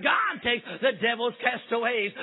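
shouted refrain, a touch of ringing pulpit call; preacher's cry. Retold or imitated. Two ladies hearing the preacher, ringing mock shout. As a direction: proclaim it like a revival cry. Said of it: "because they heard".

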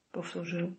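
usual speaking voice

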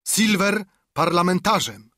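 high, loud cry of amazement; astonished cry. A narrator's reading. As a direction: shout it out in disbelief. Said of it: "krzyk zdumienia". (zdumiony okrzyk, wyżej i głośniej)

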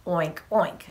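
low little pig grunts; pig oinks. Shown as a demonstration. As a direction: oink it low for the children. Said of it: "and then you go".

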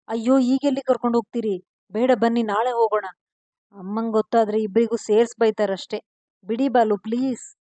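a flustered wife begging to be put down, hurried; a touch of hurried coaxing; pleading. Acted. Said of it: "ಎಂದು ಬೇಡಿಕೊಳ್ಳುತ್ತಿದ್ದಳು".

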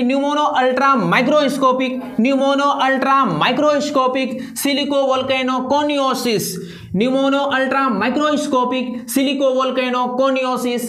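steady slow recital for the class to follow; teacher leading the class to say it together; repeat-after-me pronunciation. Shown as a demonstration. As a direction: lead the class through the word at an even pace. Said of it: "आपको उच्चारण करना है मेरे साथ".

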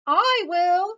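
high, loud storybook cat; eager cat cry. A narrator's reading. Cat jumps at the offer of cake, high eager cry. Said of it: "cried the cat".

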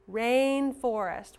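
"Rainforest" slow and loud; slow model word. Shown as a demonstration. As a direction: stretch Rainforest for the class. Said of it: "What makes the A sound?".

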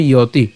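"ইয়তি" as low ya-ti; pronunciation demo. Shown as a demonstration. Teacher answering how it is pronounced, "ইয়তি" as ya-ti. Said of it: "উচ্চারণটা কেমন হবে".

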